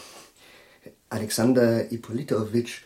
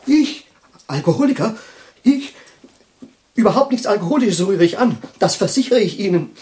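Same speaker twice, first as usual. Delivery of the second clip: loud, high indignant outburst; indignant protest; 8 semitones higher, 9 dB louder than usual. Acted. Professor loudly protests being called an alcoholic, indignant.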